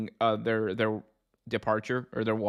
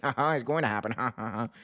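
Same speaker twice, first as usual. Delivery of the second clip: put-on gloating chuckle; mock gloating fans; 4 dB quieter, faster than usual. Mocking AEW fans crowing at their keyboards, gloating with fake laughter. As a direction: laugh smugly through the words. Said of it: "A E W people on their keyboard saying".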